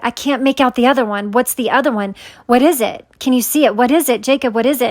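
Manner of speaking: mildly panicked, pressing questions; retold panic. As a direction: retell rising panic, lightly urgent. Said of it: "upset and panicked".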